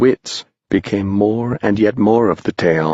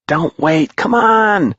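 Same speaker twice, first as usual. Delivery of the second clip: put-on boys yelling; 11 semitones higher than usual. Boys calling Moundshroud to follow, high excited yell. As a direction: call him up after you. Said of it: "the boys yelled".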